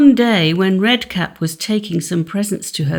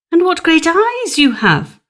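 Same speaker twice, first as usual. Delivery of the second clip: put-on wondering girl; 9 semitones higher, 4 dB louder than usual. Red Cap questions the wolf.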